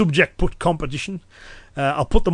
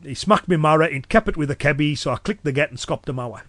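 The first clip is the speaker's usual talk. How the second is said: broad Cumbrian dialect. Shown as a demonstration. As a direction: run through it in thick Cumbrian. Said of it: "I dropped into my normal speech".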